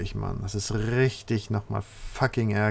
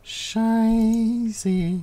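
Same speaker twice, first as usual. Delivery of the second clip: high, drawn-out alarmed curse; panicked curse; 11 semitones higher than usual. Real, not acted. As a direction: cry it out in dismay. Player curses again, higher.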